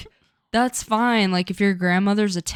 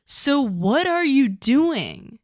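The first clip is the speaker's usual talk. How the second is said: mock scolding; 4 semitones higher, slower than usual. Calling her out in mock lecture.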